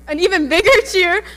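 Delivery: hype shout. Real, not acted. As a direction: pump up the crowd. Hyping up the crowd, shouting.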